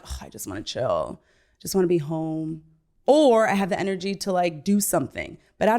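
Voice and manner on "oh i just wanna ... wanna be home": tired homebody. Retold or imitated. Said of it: "I'm like".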